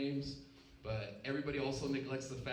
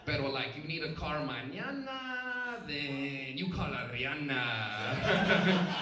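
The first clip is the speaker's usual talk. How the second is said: mock Latino accent; 2 semitones higher, 3 dB louder, much slower than usual. Comic imitates a Latino attorney's ad in a mock accent. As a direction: stretch it out like a cheesy ad. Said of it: "we need a Latino one too".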